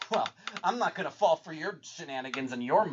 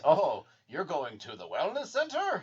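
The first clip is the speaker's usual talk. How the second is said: casual. Retold or imitated.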